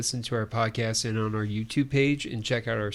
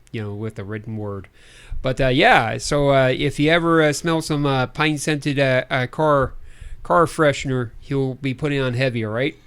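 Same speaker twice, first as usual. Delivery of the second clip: put-on Midwestern announcer; Midwestern accent. Co-host announces projects in a put-on Midwestern accent. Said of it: "a decent Midwestern accent".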